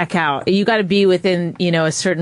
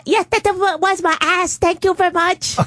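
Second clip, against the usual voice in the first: high, clipped Asian accent; 12 semitones higher than usual. Shown as a demonstration. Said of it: "how about an Asian".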